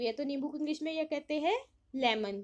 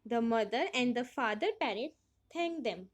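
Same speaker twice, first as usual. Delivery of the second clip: slow reading; 2 semitones lower, much slower than usual. Acted. Reads story line aloud in English.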